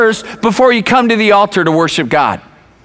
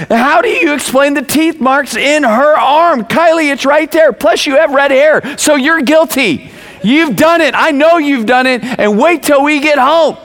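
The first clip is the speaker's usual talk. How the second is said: raised-pitch mock scolding; mad parent; 6 semitones higher than usual. Dad to his older daughter over the bite, mock angry scolding. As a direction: re-enact an upset dad who has already decided she's guilty. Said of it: "And I'm mad, I'm upset".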